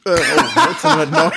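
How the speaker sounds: words pushed out through a burp; burping mid-sentence; burp talking. Real, not acted. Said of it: "Der erste gerülpste deutscher Star Trek Podcast".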